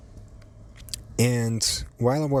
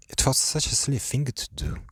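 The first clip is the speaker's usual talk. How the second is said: voice giving out. Real, not acted. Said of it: "my voice just fucking went to fucking shit".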